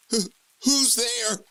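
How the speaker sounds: high, slow, stammering fear; frightened call into an empty room; shaky panicked. Acted. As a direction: ask into the dark, terrified. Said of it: "I ask through a shaky, panicked voice".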